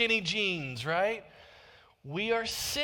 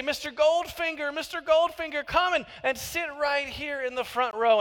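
higher-pitched mock welcome; lightly acted eager usher; 6 semitones higher than usual. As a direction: usher in the rich guest, putting on a little eagerness. Acted fawning welcome for rich visitor.

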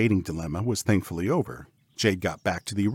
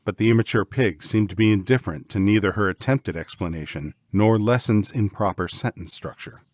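ordinary delivery, nothing marked

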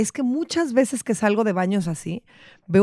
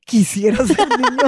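slow, put-on voice of the boy; mock child voice; 3 dB louder than usual. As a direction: act out the kid's dramatic wish, slowly. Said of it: "y esto le pasa a los hombres". (imitando al niño, despacio)

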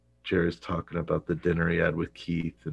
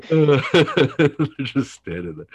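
laughing; 9 semitones higher, 8 dB louder, slower than usual. Real, not acted. Laughing over the scene.

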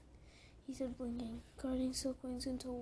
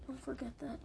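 fierce. Acted. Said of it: "Luna said fiercely".

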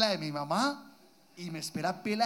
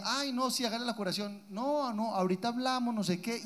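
softer, sweetly restrained mother; polite on the surface, menace beneath; mom's tonito; 4 semitones higher, 6 dB quieter than usual. Retold or imitated. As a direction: mom telling the nurse to just treat him, soft and sweet. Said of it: "Hay un tonito que ella decía".

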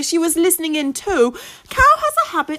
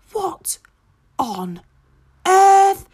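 puzzled, halting duck voice; confused duck; 3 semitones higher, much slower than usual. A narrator's reading. Duck woken by shouting, halting and confused. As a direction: sputter in confusion. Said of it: "says Duck, looking very confused".

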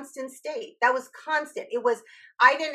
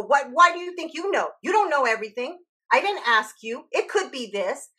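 mock angry mother; 3 semitones higher than usual. Voicing mother's defensive reaction.

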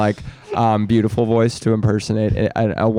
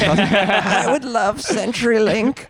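put-on high, slow old lady; quavering granny, half laughing; 10 semitones higher, much slower than usual. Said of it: "I took old lady voice".

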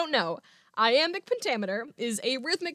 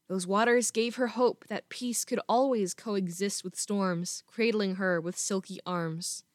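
story narration; 2 semitones lower than usual. Acted. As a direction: read it like a gentle poem. Reads her drabble aloud.

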